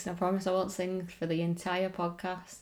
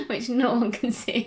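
laughing; 4 semitones higher, 4 dB louder, slower than usual. Real, not acted.

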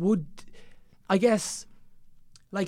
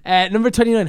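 laughing; 7 semitones higher, 8 dB louder than usual. Real, not acted. Laughing while calling number.

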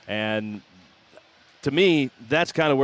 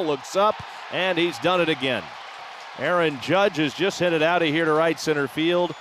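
long goal yell; 5 semitones higher than usual. Real, not acted. Home run call climax.

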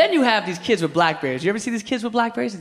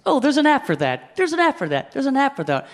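a hint of a higher, peppy commercial voice; mock iPhone ad; 6 semitones higher than usual. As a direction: parody the chirpy ad line. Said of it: "You ever see these iPhone commercials?".

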